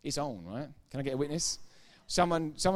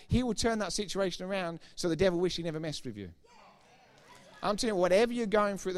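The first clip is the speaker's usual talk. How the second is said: louder, higher, fiery preaching; preaching at full force; 4 semitones higher, 5 dB louder than usual. Real, not acted. Preacher exhorting the congregation, loud and fiery. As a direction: build it up and hammer it home.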